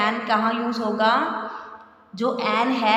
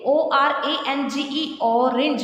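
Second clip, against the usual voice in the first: slow spelling out; 3 semitones higher, slower than usual. Shown as a demonstration. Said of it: "आपने देखना है इसकी pronunciation".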